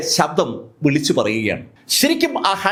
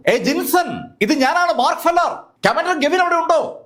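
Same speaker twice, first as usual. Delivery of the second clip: higher, calling down into the vault; 10 semitones higher than usual. A narrator's reading. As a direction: call out to be heard below. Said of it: "ഉറക്കെ നിലവറയ്ക്കുള്ളിലേക്ക് വിളിച്ചു പറഞ്ഞു". (ഉയർന്ന സ്വരത്തിൽ നിലവറയിലേക്ക് വിളിച്ചു പറയൽ)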